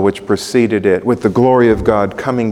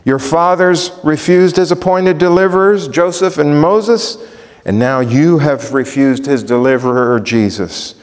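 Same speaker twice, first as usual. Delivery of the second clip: fervent preaching; 5 semitones higher, 3 dB louder than usual. Acted. Fervent paraphrase of rebuke.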